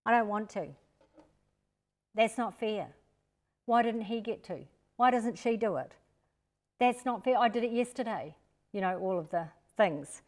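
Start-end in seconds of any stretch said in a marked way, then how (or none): 0.0-8.3 mock protest of a reluctant child; whiny child. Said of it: "I choose lack of cooperation".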